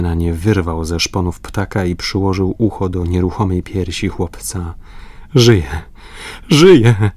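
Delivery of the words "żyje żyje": louder and higher, bursting with relief; overjoyed. A narrator's reading. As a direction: cry out in joyful relief. Father finds boy alive. (radosny okrzyk ulgi)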